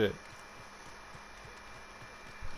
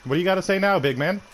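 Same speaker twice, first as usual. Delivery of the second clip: raised, louder gloating taunt; taunting shout; 5 semitones higher, 4 dB louder, faster than usual. Real, not acted. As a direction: rub it in his face, loud. Taunting an opponent after a kill.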